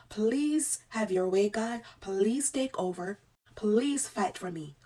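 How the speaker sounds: slow, earnest prayer to God; pleading prayer. Retold or imitated. Nurse tells viewers how she prayed, slow pleading. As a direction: pray it slowly, earnestly asking God to fight for her.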